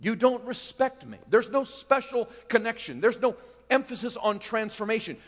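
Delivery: lightly voiced stern Jesus; a hint of a rebuking Lord; voicing Jesus. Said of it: "that Jesus says".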